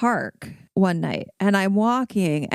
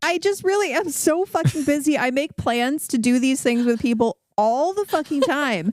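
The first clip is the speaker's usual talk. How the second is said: high, hammed-up sorry to Joanna; mock apology; 7 semitones higher than usual. Apologising to Joanna on the podcast, hammed-up and high. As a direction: overdo the apology, half laughing.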